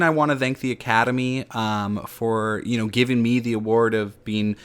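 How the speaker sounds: hammed-up Oscar winner thanking everyone; mock acceptance speech. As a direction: play the teary winner being played off. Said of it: "they're playing me off".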